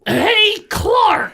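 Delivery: high, loud hail; calling out. Acted. Player shouting across the tavern to Clark, high and loud. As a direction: yell his name to get attention.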